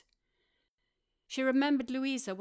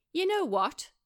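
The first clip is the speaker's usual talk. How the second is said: higher, louder teasing setup; mischievous Rory; 8 semitones higher, 7 dB louder than usual. A narrator's reading. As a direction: tease the big idea. Rory has a mischievous idea.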